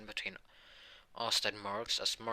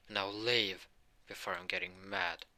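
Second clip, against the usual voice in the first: high, slow warning to back off; acted threatening order; 8 semitones higher than usual. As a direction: draw out the warning, pitched up. Asta orders the rival to leave.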